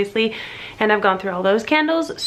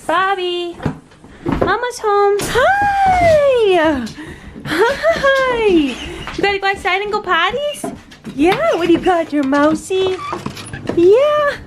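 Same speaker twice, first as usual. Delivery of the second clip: talking to a dog; 9 semitones higher, 3 dB louder, slower than usual. Real, not acted. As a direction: coo excitedly at the dog. Greeting the dog at home.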